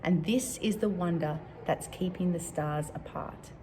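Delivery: measured love-poem recital; poem reading. Acted. Reading a favorite love poem to Year Four, measured poem reading.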